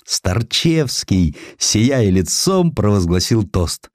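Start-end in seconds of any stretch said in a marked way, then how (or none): none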